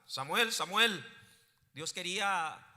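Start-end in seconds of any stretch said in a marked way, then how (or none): 0.1-1.0 louder call of a name, repeated. Acted. God speaks to Samuel once more, calling out. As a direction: call the sleeper by name, moderately loud. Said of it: "nuevamente Dios le habla".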